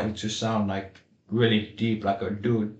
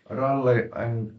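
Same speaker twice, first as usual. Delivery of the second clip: rally English accent; slower than usual. Shown as a demonstration. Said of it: "how do you speak in rally English?".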